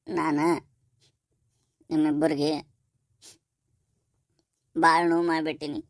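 halting remorse with long pauses; tearful confession. Acted. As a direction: confess haltingly through tears. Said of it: "ಯಾಕ ಅಳಾಕತ್ತಿ?". (ಅಳುತ್ತಾ ತಡೆದು ತಡೆದು ತಪ್ಪೊಪ್ಪಿಗೆ)

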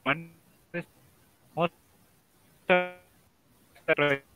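choppy, breaking-up call line; words dropping out over a bad connection; robotic call audio. Real, not acted. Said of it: "your audio is breaking for me".

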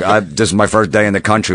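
a barely-there fake English accent; lightly faked English accent, dodging a woman at a bar; bad English accent. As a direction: faintly fake an English accent to dodge her. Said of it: "I put an English accent on".

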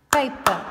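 "Paper" repeated as two loud, separate beats; split into syllables. Shown as a demonstration. Teacher letting pupils listen, "Paper" split into two punched syllables. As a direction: break "Paper" clearly into pay and per. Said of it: "listen to it".

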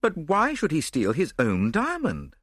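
mildly bewildered companion; puzzled. A narrator's reading. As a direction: ask it in honest puzzlement.

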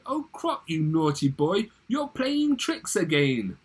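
high, loud scolding lady voice; theatrical high-pitched lady, drawn out at the end; lady crying out. A narrator's reading. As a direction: scold a naughty pet in a high voice. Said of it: "She cried".

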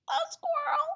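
high, loud alarmed cry. Acted. Reader alarmed for squirrel.

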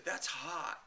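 lightly voiced socialite "That's hot."; a hint of celebrity purr; Paris Hilton catchphrase. Repeating the catchphrase to the chat room. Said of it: "and I just said".

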